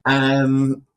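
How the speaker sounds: slow, giggling refusal; laughing. Real, not acted. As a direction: laugh through the words.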